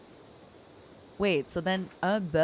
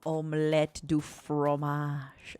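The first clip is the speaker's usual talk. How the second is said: slow French accent; lingering French accent voice; soft French accent; slower than usual. Shown as a demonstration. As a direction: say it slowly in a put-on French accent. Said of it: "in a soft French accent voice".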